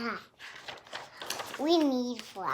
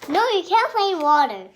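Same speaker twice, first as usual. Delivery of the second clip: mock scolding; 5 semitones higher, 8 dB louder, much faster than usual. Child mock-scolding a parent.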